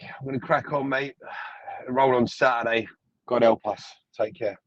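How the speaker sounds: ordinary delivery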